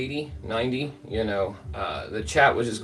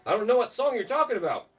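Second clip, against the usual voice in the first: mock exasperated streamer; 10 semitones higher than usual. The speaker cussing him out.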